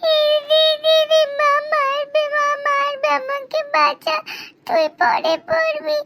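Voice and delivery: pleading little brother. Acted. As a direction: beg your sister to save you. Little brother begging sister. (দিদির কাছে ভাইয়ের উঁচু গলায় কাকুতি)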